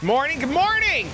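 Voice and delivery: high loud sing-song morning; cheery greeting. Real, not acted. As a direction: call out a bright hello. Greeting new viewer.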